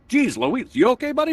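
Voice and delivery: high-pitched startled dad; mock concern. Dad checks on son after fight, startled concern. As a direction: react with a high, worried yelp of concern.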